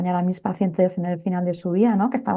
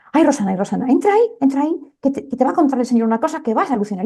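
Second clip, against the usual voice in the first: frightened nurse; 6 semitones higher, faster than usual. Retold or imitated. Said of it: "Estaba francamente asustada".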